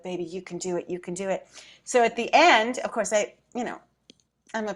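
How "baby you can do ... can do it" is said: soft, low imitated cheering-on; quietly will someone on, lightly acted; hushed supportive murmur, retold; gentle encouragement. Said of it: "giving me that good energy".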